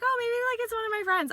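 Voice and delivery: put-on high, soft girly voice; airy hopeful guess; lightly voiced date; quoting her date. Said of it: "She's like".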